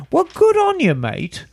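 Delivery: put-on a light Canadian accent starting high, well good on you mate; a hint of a Canadian accent answering the letter writer; mock Canadian accent. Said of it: "to hear your best Canadian accent".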